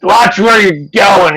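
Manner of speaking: put-on high, loud drunk yelling; drunken shout. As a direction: bellow it as he staggers off. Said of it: "stumbles away and goes".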